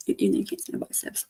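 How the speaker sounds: breathy whispered aside to chat; whispered joke about biceps. Real, not acted. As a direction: drop to a whisper, joking.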